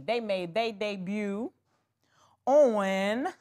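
whispered, slow and hushed; secret whisper. Real, not acted. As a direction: let them in on a secret. Hushed reveal of new wigs.

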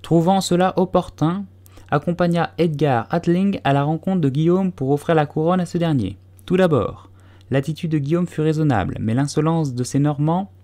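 high, brisk pompous lecture; mouse lecturing briskly. A narrator's reading. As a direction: hurry on, ignoring the question. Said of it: "continua vivement".

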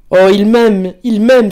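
high, loud burst of joy; elated cry. A narrator's reading. Pauline realises Raphaël loves her, elated cry. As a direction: cry out, overjoyed at being loved. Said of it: "s'écria Pauline".

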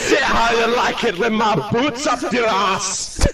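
shouted British mock threat; put-on British accent. Staff member threatening a kick, shouting in British accent. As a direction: bluster like a British hard case. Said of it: "You do that accent so well".

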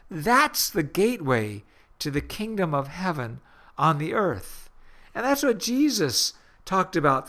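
earnest preaching voice; a radio sermon, spoken with steady conviction. Acted.

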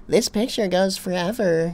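flat stilted robot voice. Retold or imitated. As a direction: read it like a cheap robot. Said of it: "that stupid ass robot voice".

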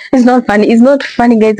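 giggling through the words, fast; a real laugh he can't hold back; breaking into laughter while insisting it's not funny; laughing despite himself. Real, not acted. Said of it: "I'm trying hard not to laugh".

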